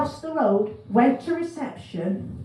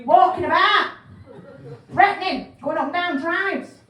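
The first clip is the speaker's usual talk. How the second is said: caller voice; 4 semitones higher, 4 dB louder than usual. Retold or imitated. Caller describing swan.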